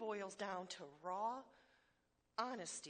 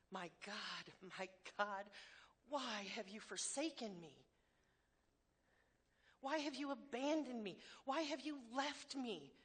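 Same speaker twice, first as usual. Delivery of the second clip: anguished cry. Retold or imitated. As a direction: cry out abandoned, slowing at the end. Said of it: "he called out".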